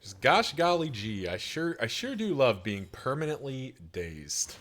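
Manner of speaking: sugary fake cheer, aw-shucks; wholesome 1950s kid. Sarcastic praise of being dazed.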